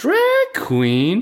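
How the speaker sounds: indignant, very high voice. Retelling how a guest reacted to being called this, half-imitating an offended question. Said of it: "我现在是有点半模仿".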